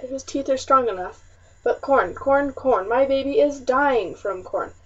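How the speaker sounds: a desperate rant that builds, then breaks on her name; storm of words. Acted. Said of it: "a storm of words".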